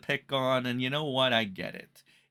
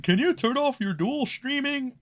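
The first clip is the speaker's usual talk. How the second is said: tag; 11 semitones higher than usual. Retold or imitated. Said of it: "E V S says".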